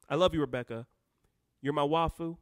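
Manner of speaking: ordinary talk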